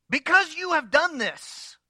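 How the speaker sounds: high, slow put-on voice; a deadpan fake reply; mock Balaam voice. Mock calm reply to talking donkey.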